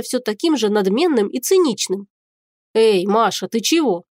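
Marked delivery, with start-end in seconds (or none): 2.7-4.0 surprised. A narrator's reading. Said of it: "его удивлённый голос".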